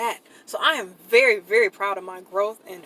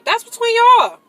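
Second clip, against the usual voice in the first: emphatic; 13 semitones higher, 9 dB louder than usual. Real, not acted. Ranting about co-parenting boundaries.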